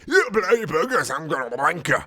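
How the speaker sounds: high, loud bad-British shout; hammed-up outraged British yell; shouted insult. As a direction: yell it in a fake British accent. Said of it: "and shouted".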